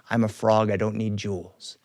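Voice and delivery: a flat-voiced unimpressed frog. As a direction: frog turning down jewels. Frog answers princess.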